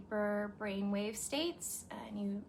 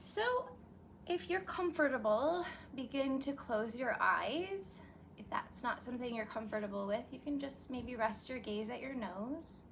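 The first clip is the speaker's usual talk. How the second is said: calm yoga nidra guide; guided meditation; 3 semitones higher than usual. Real, not acted. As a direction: ease listeners gently into a meditation, lingering on phrases. Begins leading the meditation.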